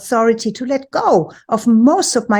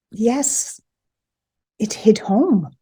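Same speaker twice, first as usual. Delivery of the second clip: whispered; slower than usual. Real, not acted. Realization told to viewers.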